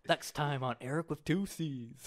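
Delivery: slow, drawn-out show announcer; lightly hammed-up announcer; mock preview announcer. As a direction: parody a next-episode teaser. Parodies the anime preview announcer.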